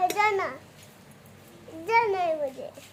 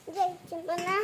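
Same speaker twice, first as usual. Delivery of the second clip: crying; 4 dB quieter than usual. Real, not acted. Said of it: "रडू नको बाळा".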